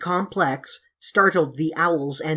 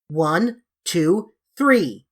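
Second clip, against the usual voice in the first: counted yell; 4 dB louder, much slower than usual. Acted.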